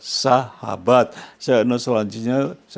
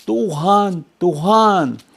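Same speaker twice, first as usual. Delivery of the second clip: calling out; 4 semitones higher, much slower than usual. Shown as a demonstration.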